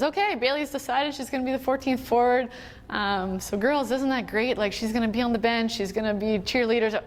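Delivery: brightly lifted imitation of a coach; upbeat coach announcement. Coach telling the girls who's the fourteenth forward, upbeat imitation.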